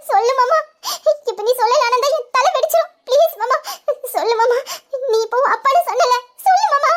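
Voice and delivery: worked-up, urgent begging for an answer; tense, insistent pleading; agitated pleading. Acted. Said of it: "tension ஆகாதடி".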